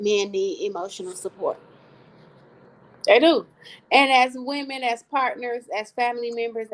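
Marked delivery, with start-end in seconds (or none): 3.1-3.5 emphatic affirmation. Real, not acted.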